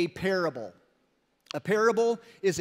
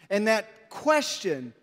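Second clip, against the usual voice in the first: ordinary talk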